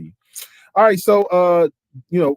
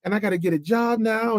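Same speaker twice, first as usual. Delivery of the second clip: higher-pitched mock worry; imitated panic; 5 semitones higher than usual. Young man tells mentor his girlfriend is pregnant, imitated rising panic. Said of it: "see the panic coming over his face".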